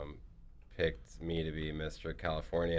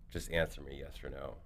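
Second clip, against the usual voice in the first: upset dad; 5 semitones lower, 7 dB quieter than usual. Retold or imitated. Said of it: "He's very upset".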